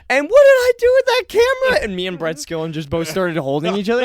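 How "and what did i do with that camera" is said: much higher, loud goofy dad voice; mock oblivious dad. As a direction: play the clueless dad asking innocently. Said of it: "he was like".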